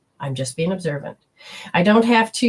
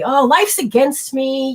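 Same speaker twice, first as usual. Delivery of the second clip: mock self-pity; 6 semitones higher, slower than usual. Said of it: "You can say".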